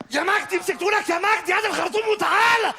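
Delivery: loud, high shouted call. Acted. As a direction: shout for the hose. Mother calls father to beat.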